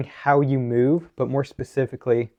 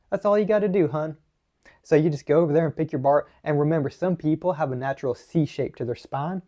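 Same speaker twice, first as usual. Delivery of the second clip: put-on Southern US accent; 3 semitones higher than usual. Coach mimicking bad deadlifting advice, in a Southern accent. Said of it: "went to a bit of a southern accent".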